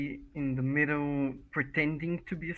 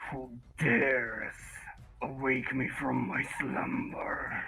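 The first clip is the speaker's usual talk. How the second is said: dragon voice; 3 dB quieter, slower than usual. Acted. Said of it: "rise as a typical dragon from his hoard and say".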